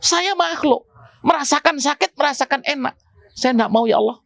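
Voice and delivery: mild mock plea of a mountain to God; pleading mountain. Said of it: "gunung apa bumi juga sama".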